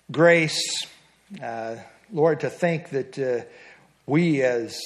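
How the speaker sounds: slow, earnest prayer voice with long pauses; closing prayer. Acted. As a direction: pray humbly to close the class.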